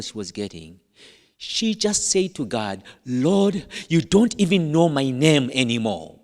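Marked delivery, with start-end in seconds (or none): 3.1-6.2 mild acted frustration, louder; frustrated prayer. Woman praying to God in the store, mildly frustrated. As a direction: complain loudly to God, a touch exasperated. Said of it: "in frustration".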